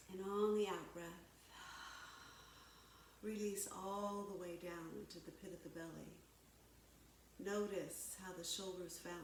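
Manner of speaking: calm, measured yoga-teacher delivery; guided yoga. Real, not acted. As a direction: guide them through breath and stretch, unhurried pauses between cues. Leads breathing and stretching.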